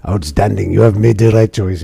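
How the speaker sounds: a new silly voice for the officer; officer offering the mission in a silly voice; different silly voice. Acted. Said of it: "Different silly voice".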